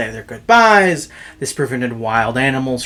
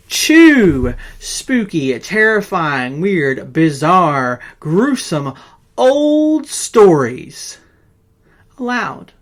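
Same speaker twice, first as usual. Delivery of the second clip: drawn-out spooky list; 3 semitones higher, 4 dB louder, much slower than usual. Acted.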